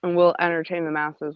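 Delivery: talking around ice cubes; ice in mouth. Real, not acted. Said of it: "I've got ice in my mouth".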